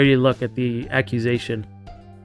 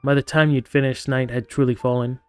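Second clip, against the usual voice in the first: story narration. A narrator's reading. Reads game narration aloud.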